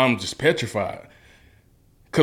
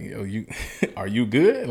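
laughing question. Retold or imitated. Laughing while asking friend.

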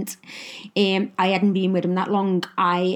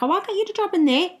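chirpy neighbour; 10 semitones higher, faster than usual. Retold or imitated. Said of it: "she was like".

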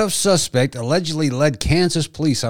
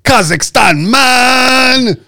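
higher, slow, drawn-out announcer; 9 semitones higher, 5 dB louder, much slower than usual. Pretend. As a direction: announce it like a show title. Dramatic announcer tag.

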